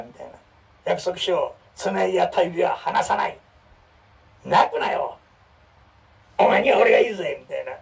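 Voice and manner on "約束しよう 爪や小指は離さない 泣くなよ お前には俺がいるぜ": hammed-up drama hero building to loud; mock heroic vow; cool hero lines. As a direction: deliver it like a heartthrob's promise, slowing on the vow. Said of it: "かっこええやんか".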